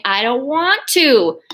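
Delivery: mild drawn-out whiny refusal; dragged-out protest, lightly acted; reluctant child. Girl refusing to do the laundry, mock reluctant.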